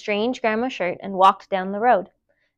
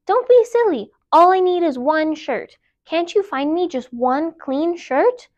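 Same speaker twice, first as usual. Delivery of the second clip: put-on child voice; 5 semitones higher than usual. Child answers mother.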